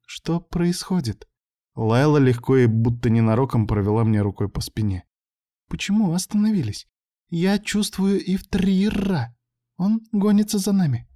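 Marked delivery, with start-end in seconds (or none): 0.1-1.3 high, slow puzzled machine; a lost voice from the speakers; confused computer. A narrator's reading. 5.7-11.1 sense the hunter coming; frightened Layla. A narrator's reading. Layla, alien girl, frightened.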